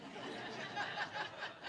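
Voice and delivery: a quick, airy chuckle at himself; soft breathy laugh. Real, not acted. Amused at calling himself a religious leader, soft laugh. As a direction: let a short quiet laugh slip out. Laughs at his own remark.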